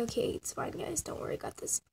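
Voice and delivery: soft whisper, it's fine; whispered reassurance. Real, not acted. Animator whispering to viewers that it's fine. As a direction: hush them, I've got this. Calming herself after the panic.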